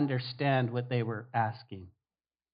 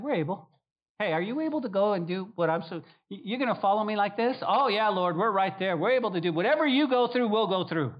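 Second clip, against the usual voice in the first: eager boasting disciples; 5 semitones higher than usual. Retold or imitated.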